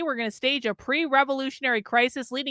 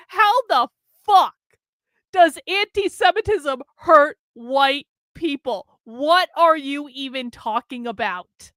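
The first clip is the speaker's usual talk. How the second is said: incredulous retort; 3 dB louder than usual. Retold or imitated. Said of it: "I was like".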